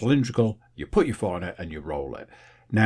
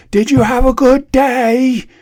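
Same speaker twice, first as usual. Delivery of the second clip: switched-up very high, very loud voice; 12 dB louder than usual. Retelling asking someone about their day: imitating own louder speaking voice. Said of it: "I have to switch over into this higher volume".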